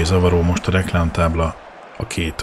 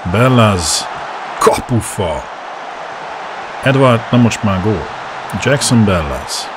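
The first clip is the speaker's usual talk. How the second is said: excited hungarian sports commentary; 3 semitones higher than usual. Real, not acted. Live commentary of a chance.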